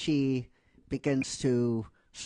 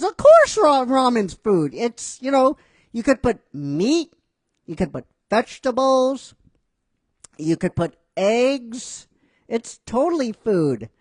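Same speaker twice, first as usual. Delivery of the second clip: much higher, louder defensive insistence; indignant Naruto; 8 semitones higher, 6 dB louder than usual. Retold or imitated. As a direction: defend ramen like it's sacred. Naruto defends ramen loudly.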